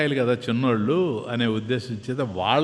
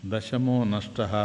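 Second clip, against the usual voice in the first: lower, softer, slow musing repeat; calm old man; 5 semitones lower, 5 dB quieter, much slower than usual. Acted. Old man calmly repeating the boys' cry to himself. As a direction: mull the words over quietly, slowly.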